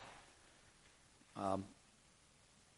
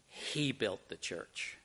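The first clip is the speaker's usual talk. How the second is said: much softer, lower and slow; quiet correction; 6 semitones lower, 11 dB quieter, much slower than usual. Acted. Mother Superior quietly gives the credit to God, slow and soft. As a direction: let it land gently and firmly.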